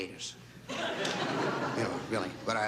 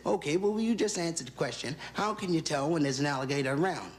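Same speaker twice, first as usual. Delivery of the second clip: impatient lady; 6 semitones higher than usual. Acted. Woman presses guide for answer.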